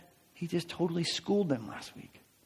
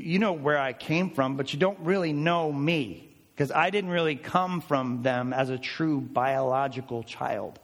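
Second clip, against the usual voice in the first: mock innocent. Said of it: "He's like".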